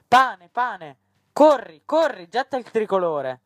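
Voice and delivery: high, loud shouts of revolt; riot cries. A narrator's reading. Women in the bread revolt, shouting urgently. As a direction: shout slogans and orders over a crowd.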